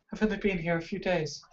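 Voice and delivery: high, breathy put-on elf voice; hushed high voice of a prisoner; captive elf woman. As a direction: answer timidly, pitched well up.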